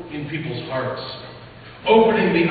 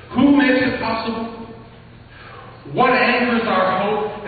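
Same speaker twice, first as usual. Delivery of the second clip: preaching climax; 3 semitones higher than usual. Real, not acted. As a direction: drive the questions home with force. Rising rhetorical climax in sermon.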